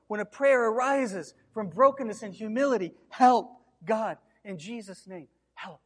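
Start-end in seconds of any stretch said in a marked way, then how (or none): 3.1-5.8 loud cry for help. Acted. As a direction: shout the word for help upward. Pastor demonstrates broken prayer.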